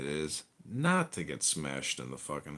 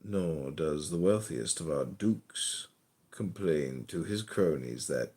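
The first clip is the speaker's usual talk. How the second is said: poem recital. Acted. Reading a poem aloud.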